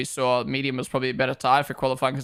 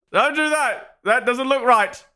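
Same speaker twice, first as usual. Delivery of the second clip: much higher, slow, squeaky mocking whine; 10 semitones higher, 5 dB louder, slower than usual. Streamer mocking his own warning in a high whiny voice. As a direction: parrot the warning back in a silly high voice.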